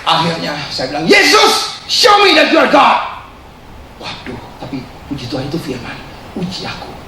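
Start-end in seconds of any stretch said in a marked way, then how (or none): 1.1-3.3 high, loud, slow shout to heaven; defiant challenge. Retold or imitated. Challenging Jesus in prayer. 6.4-6.9 soft, unvoiced hush; whispered reply.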